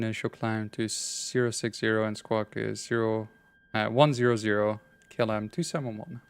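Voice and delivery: measured ATC radio phraseology; pilot radio call. Acted. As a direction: read it like a pilot on frequency.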